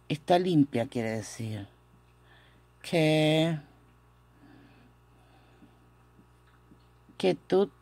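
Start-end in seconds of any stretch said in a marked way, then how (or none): 2.8-7.7 "Ke-" held, then "ketut" cut short; pronunciation demo. Shown as a demonstration. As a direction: sound out "ketut" in two steps, ending on a stopped t. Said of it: "Esto viene a sonar ketut". ("ketut" por partes, con t final cortada)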